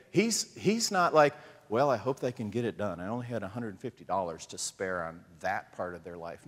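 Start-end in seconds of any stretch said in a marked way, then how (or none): 1.7-6.5 mock stingy God.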